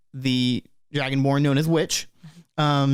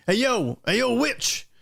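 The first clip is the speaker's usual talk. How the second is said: calling out; 9 semitones higher than usual. Acted. Banquo calls to his companion.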